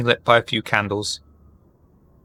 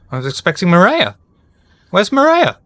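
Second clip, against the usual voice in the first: higher, rising flustered demand; flustered old man; 7 semitones higher, 4 dB louder than usual. Acted. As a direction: sputter like a caught old man. Flustered NPC demands Maria.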